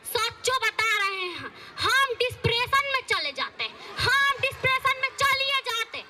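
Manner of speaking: a hint of a stern village saas, nagging; lightly voiced scolding mother-in-law. Mother-in-law scolding daughter-in-law over her clothes, nagging.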